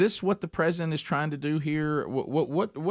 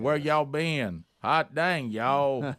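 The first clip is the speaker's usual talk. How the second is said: mock Southern accent; much slower than usual. Host mimics the senator clip, mock Southern accent. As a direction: imitate a politician's fake Southern twang.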